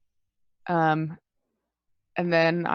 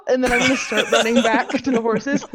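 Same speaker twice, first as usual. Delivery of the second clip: laughing; 6 semitones higher, 6 dB louder, faster than usual. Acted. Player narrates laughing in voice.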